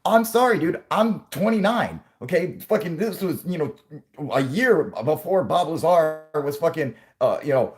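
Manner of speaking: squeaky apologetic Cindy. Pretend. Cindy apologising to her boss, high and flustered. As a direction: whine an apology.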